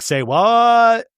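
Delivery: shocked disbelief. Retold or imitated. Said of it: "And Lisa's like".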